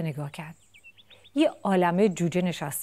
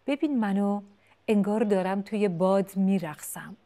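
happy chick; 2 semitones higher, 5 dB louder than usual. Acted. Chick flying happily.

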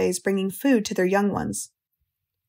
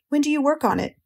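pleading, pitched higher; begging; 6 semitones higher than usual. Acted. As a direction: beg her eagerly, voice up. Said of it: "begged Wilbur".

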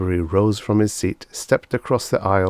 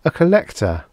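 high, falling alien repeat; 9 semitones higher, 4 dB louder than usual. Acted. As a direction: repeat it as the monster. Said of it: "it repeated".

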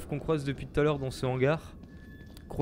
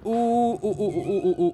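excited; 5 semitones higher, 5 dB louder, slower than usual. Real, not acted. Finds loot at workbench.

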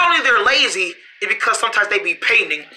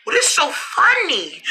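laughing shout; 7 semitones higher, slower than usual. Acted. Indignant while others laugh.

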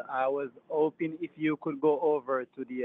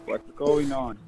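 stressed out; 4 dB louder than usual. Acted. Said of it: "right now I'm so stressed out".

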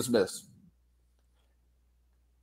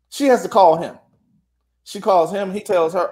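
ordinary talk, nothing marked

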